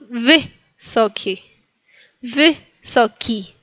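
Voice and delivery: "wysoki" slowly, short hiccup-like vowel in vy; slow split "wysoki", Y from the chest, clear final I; chesty Y. Shown as a demonstration. Teacher applies hiccup sound, slow separated "wysoki". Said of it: "algo que viene del pecho".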